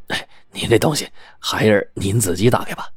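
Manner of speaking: a soft, obliging shopkeeper's smile in the voice; ingratiating smile. Acted. Shopkeeper humouring the customer with a smiling voice. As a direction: smile through it, soft and deferential. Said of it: "李掌柜陪着笑脸".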